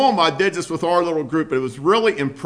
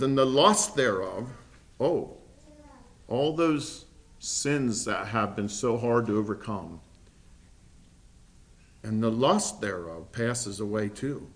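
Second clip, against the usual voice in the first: scripture reading; 3 dB louder than usual. Acted. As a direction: read the verses like a sermon text. Reads scripture aloud.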